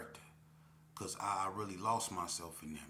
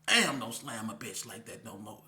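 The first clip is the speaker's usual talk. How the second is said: mock pained complaint; 7 dB louder than usual. Complaint after slam.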